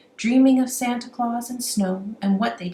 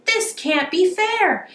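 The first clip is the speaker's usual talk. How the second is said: panicked robber; 7 semitones higher, 4 dB louder than usual. A narrator's reading. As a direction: plead it like a beaten crook. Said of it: "shouted Billy".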